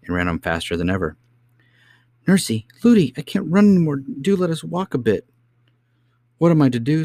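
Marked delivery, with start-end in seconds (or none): 2.3-5.3 put-on very high, loud child's plea; high-pitched whining plea; pleading princess. Exhausted princess pleads to walk. 6.4-7.0 high, loud cry of despair; high-pitched distraught voice; frantic nurse. Acted.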